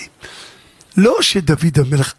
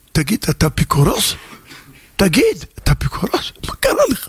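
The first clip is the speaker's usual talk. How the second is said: indignant father. Retold or imitated. Father rebukes son, heretic?.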